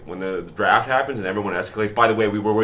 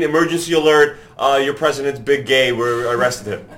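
mock emergency broadcast; 4 semitones higher, 5 dB louder than usual.

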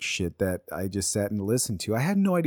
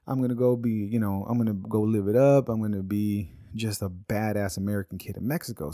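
put-on excited kid. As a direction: cheer like a kid going on holiday. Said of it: "and I'm like".

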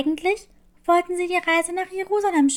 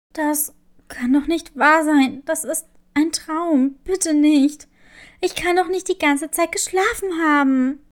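upset disbelief; 4 dB louder than usual. Acted. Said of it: "außer sich vor Wut".

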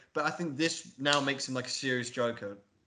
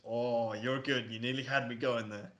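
a hint of mock-villain admiration; Joker. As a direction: imitate a villain savouring the moment. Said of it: "and then he goes".

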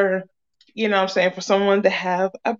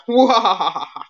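evil laugh. Real, not acted. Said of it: "that's my evil laugh".

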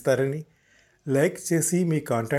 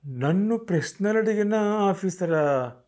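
high, slow astonished question; 7 semitones higher, slower than usual. A narrator's reading. Ratnam stunned that Vikram knows about the officer. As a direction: caught off guard. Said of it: "ఆశ్చర్యపడిపోతూ".

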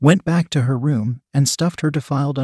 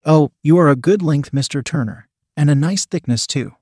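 purring. Acted. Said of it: "she purred".

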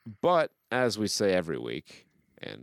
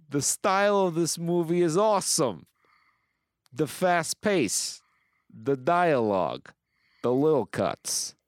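gushing review read-out; 10 semitones higher, 4 dB louder than usual. Acted. Host listing the movie's merits, hammed-up gushing. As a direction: savour each item like a superfan.

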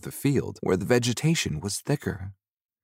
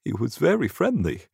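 put-on higher-pitched old storyteller; old man; 5 semitones higher than usual. Old ghost telling Seneth his story, old man voice. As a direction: tell it as an old ghost recalling his life. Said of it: "Ahan began to tell his story".

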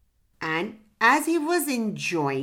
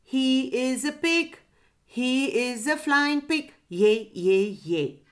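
lightly voiced pigeon, high singsong; a hint of a pigeon's coo; 4 semitones higher than usual. A narrator's reading. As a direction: chant it like a mildly cooing pigeon. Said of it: "cooed the pigeon".

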